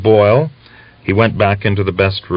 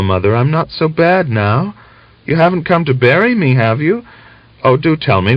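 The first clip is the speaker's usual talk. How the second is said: higher, pleading and agitated; 9 semitones higher than usual. A narrator's reading. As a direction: press her mother anxiously. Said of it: "in an agitated tone".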